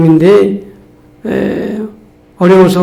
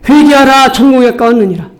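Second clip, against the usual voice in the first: preaching call; 5 semitones higher than usual. Real, not acted. Repeated call to repent, raised.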